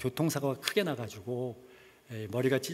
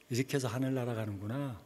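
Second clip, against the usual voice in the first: quiet inner thought; 3 semitones lower, 7 dB quieter than usual. Retold or imitated. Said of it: "제가 어떤 생각을 했냐면".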